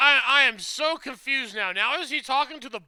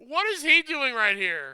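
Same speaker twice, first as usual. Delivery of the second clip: laughing question; 3 semitones higher than usual. Real, not acted. Laughs at the scene.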